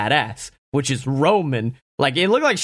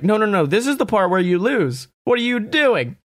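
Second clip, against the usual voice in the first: baffled Roman; 7 semitones higher than usual. Retold or imitated. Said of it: "It's just Roman being confused".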